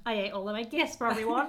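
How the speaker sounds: lightly voiced naughty-boy confession. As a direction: own up like a naughty little boy, lightly played. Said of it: "he's gone into naughty boy character".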